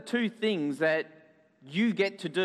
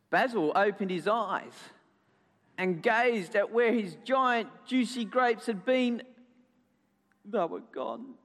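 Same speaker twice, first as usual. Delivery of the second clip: higher, lilting storytelling; story narration to children; 3 semitones higher than usual. A narrator's reading. Storyteller tells children what Basil saw, narrating with lilt. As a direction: linger on each phrase for young listeners.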